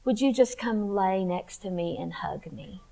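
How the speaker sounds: hushed plea to Jesus for comfort; whispered prayer. Retold or imitated. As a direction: whisper it like praying alone at night. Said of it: "I would just say".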